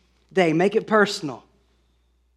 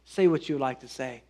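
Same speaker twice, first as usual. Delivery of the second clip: gentle smiling master; 5 semitones lower, 7 dB quieter, faster than usual. Retold or imitated. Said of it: "smiles and says".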